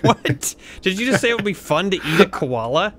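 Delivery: high, loud incredulous question; can't believe what you just heard; shocked disbelief. Real, not acted. Reacting to koala comment.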